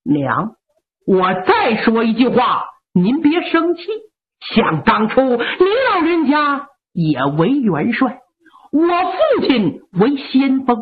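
gently pointed, lightly voiced son; reasoning son. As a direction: corner her with her own past. Son reminds mother of past.

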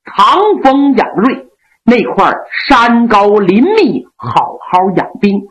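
noble general gently scolding his loyal men; Yang Liulang. Acted. Yang Liulang voiced by storyteller.

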